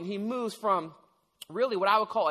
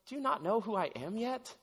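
tender question; 3 semitones higher, 6 dB quieter than usual. Retold or imitated. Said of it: "just a tender, caring word".

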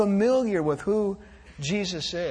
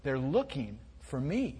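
put-on much softer, giggling child's voice; muffled giggle; 6 semitones lower, 10 dB quieter than usual. A narrator's reading. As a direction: hold back a giggle as you say it. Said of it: "There was a muffled giggle".

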